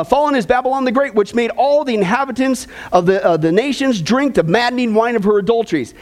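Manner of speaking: lifted, measured Bible reading to the congregation; scripture reading. Acted. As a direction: read the verses out like a preacher at the pulpit. Reads scripture aloud.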